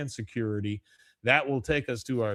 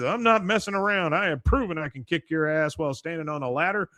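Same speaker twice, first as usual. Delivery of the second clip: higher, louder warning; angry threat; 4 semitones higher, 4 dB louder than usual. Retold or imitated. Hank threatens Dale from the ladder, higher and louder. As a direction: threaten the neighbor for real. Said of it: "He says".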